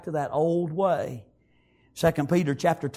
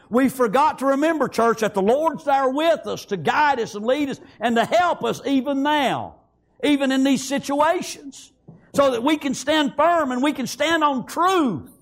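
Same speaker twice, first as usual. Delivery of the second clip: raised, urgent pulpit delivery; preaching; 6 semitones higher than usual. Real, not acted. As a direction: exhort the church with rising pitch. Preaches at full force.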